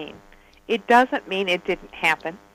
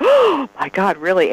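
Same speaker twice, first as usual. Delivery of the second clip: retold astonishment; 5 dB louder than usual. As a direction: re-enact being bowled over by news. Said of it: "my whole body just went".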